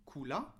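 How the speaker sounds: "coula" with an A after the L; wrong added vowel. Shown as a demonstration. Teacher showing what was not said, added final A. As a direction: add an audible A to end "coula". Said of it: "J'ai pas dit".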